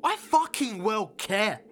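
loud, high, heated shout; furious retort. Acted. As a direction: shout it back, rushing then landing each word. Shouting back at partner.

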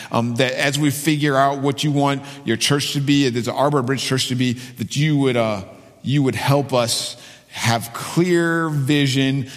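earnest spoken public prayer. Real, not acted. Pastor asks Father to help the church, prayerful. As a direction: pray aloud for the congregation, pausing between phrases.

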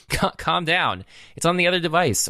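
high-pitched mock exasperation; exasperated retort. User calming down a pushy device, exasperated.

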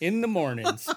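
morning zoo DJ. Acted. Spoofing a wacky morning show tagline, DJ voice. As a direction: sell the slogan like a cheesy DJ. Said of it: "Wacky Morning Zoo Crew".

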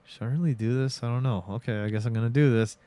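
softly voiced reluctance; hesitant. Vampire stalling before he drinks, hesitant. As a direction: talk yourself into it, a little softly. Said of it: "there is hesitation. He does this kind of like".

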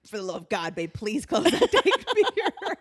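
mock exasperation rising into laughter; exasperated husband. Husband begging wife about the mirror, laughing mock exasperation. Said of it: "it drives him crazy".

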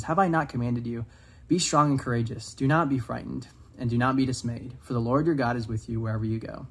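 earnest scripture recital; scripture reading. Acted. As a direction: read the verse out with care. Reads Joshua verse aloud.

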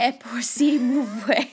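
slow mangled French-Italian attempt; careful bad French-style pronunciation; foreign accent in French. Shown as a demonstration. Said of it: "but I still can't do it".

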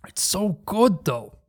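chewing bread while talking; words through a mouthful; mouth full. Real, not acted. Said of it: "Sorry, I'm eating the bread again".

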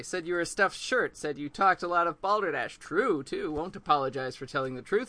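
lightly voiced blunt old owl, lecturing; a hint of a crusty old owl scolding Grover; gruff old owl. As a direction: read the owl as a stern, no-nonsense lecturer. Reading Whibley's lines from book.

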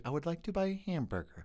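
careful American pronunciation; normal American model. Retold or imitated. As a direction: model it neatly as an accent coach. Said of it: "like, a normal".

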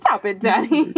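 playful small-boy impression; Gray. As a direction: imitate a gleeful child telling off dad. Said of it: "And then Gray runs out smiling".

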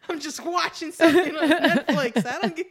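high, loud exasperated protest; Bill Burr protesting to fans, high and loud; mock exasperated Bill Burr. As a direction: protest helplessly as the pile-on grows. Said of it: "He's like".

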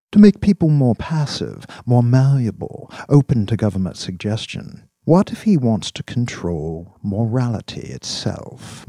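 emphatic opening, deliberate rhetorical questions; measured persuader building a case; intense, probing boss. Acted. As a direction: press the theory phrase by phrase. Voices Dax pressing his theory.

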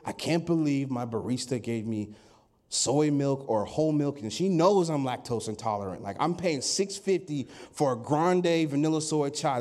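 low, grumbly gripe about petty troubles; mock complaining. Preacher acts out petty coffee gripes, mock complaining. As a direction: put on a low, fed-up moan. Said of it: "that's complaining".

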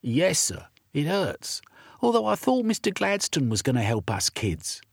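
put-on a beaten boy admitting his pain; hurt urchin boy.

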